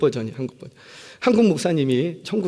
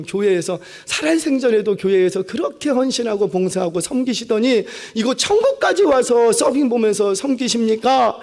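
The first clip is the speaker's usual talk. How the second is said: gushing admiration; 5 semitones higher than usual. Retold or imitated. Deacon fawning over the elder he meets in heaven, gushing. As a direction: lay the flattery on thick, slowing to savour it.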